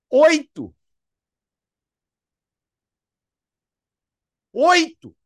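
high, loud disbelieving "Oito?"; incredulous. Retold or imitated. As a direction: repeat it like you can't believe it. Incredulous mentor repeating number. ("Oito?" incrédulo, alto e agudo)

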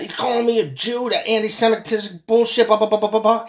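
a hammed-up offended manager brushing it off; mock whiny manager. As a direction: parody him complaining, piling on the blahs. Mocking the upset Jewish manager.

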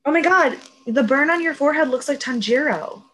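high, loud exclamation; sudden amazed outburst. Real, not acted. Telling co-host their burn looks like an anime hero's, excitedly. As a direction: blurt it out like a startling discovery.

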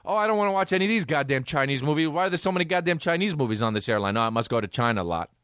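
fast grumbling horse; quick, lightly voiced complaining horse; mock horse voice. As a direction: rattle it off as the bored horse. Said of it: "looking at the TV Select".

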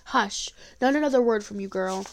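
lightly voiced angry old woman hushing; granny silencing the girl, mild stern anger; fierce anger. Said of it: "fierce with anger".

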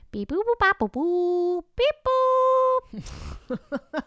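high beeping robot noises; toy robot voice. Retold or imitated. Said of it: "I was like".

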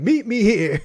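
solemn prophet's pronouncement; real prophet. Shown as a demonstration. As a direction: proclaim it like a prophet. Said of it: "You gotta sound like a real prophet".

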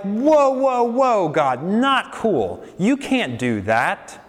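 high, put-on voice of a startled objector; a hammed-up whoa, pulling back in alarm; mock protest. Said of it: "We're like".

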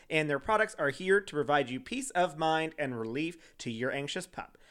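bright, upbeat sponsor read; podcast sponsor spot. Acted. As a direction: sell the dog treats like a host ad. Reads sponsor ad.

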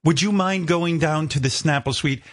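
lightly imitated British producer; courteous request in a rough British accent; amateur British accent for a polite producer. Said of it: "I don't do a British accent".

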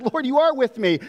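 high, gasped burst of faith; lightly voiced drowning man's cry; quick shout of confidence. A narrator's reading. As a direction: gasp it out with sudden certainty. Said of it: "this quick little shout of confidence".

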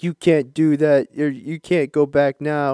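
slow, drawn-out mock devil; lightly voiced devil; devil's taunt. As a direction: stretch it out like a taunting tempter. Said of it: "the devil's gonna be like".

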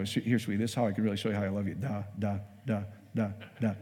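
low, soft murmur into nonsense syllables; mock sweet talk. Husband showing wife love in nonsense syllables, mock intimate. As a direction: play it soft and low, deadpan.

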